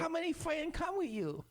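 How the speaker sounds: high, far put-on Asian accent as the sushi chef; mock Asian accent. Imitating the sushi chef for friends in a high mock Asian accent. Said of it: "Do it again".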